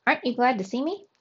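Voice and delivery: put-on quick, eager kid voice; bright young nephew, rushing; excited child voice. A narrator's reading.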